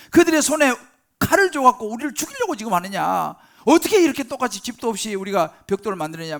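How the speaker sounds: loud, aggrieved complaint at Moses; 불평과 원망. Acted. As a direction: have it out with Moses as the resentful crowd. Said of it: "불평하고 난리가 났습니다". (모세를 원망하며 큰 소리로 따지기)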